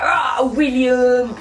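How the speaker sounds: hammed-up roaring lion threat; lightly voiced villain lion, growly roars thrown in; Scar. Scar attacks Prince William, mock lion threat. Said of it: "That's what Scar would be like".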